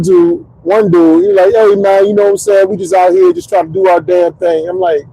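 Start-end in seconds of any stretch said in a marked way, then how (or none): 1.5-4.7 lightly put-on Southern accent; a hint of older Southern talk. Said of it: "the more Southern their voice sounds".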